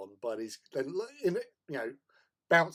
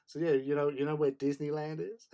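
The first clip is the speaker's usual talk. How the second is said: put-on light American accent, pitched higher; 4 semitones higher, 5 dB louder than usual. Bluffing the cubs about Disneyland, light American accent. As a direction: play the casual American local. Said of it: "put on this American accent".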